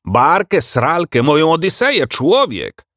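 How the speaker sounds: high, excitable exclamation; indignant, high-pitched animal admiral; shouting. A narrator's reading. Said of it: "krzyknął admirał".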